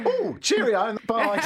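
high, loud mock greeting; imitating people chirping a greeting; confused greeters. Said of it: "come up to you and go".

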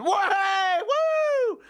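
squealed falsetto cheer with a laugh; girls cheering. Retold or imitated. Teenage girls greet him at arrival, squealing high falsetto cheer. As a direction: mimic teen girls shrieking at a pop star. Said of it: "they just went".

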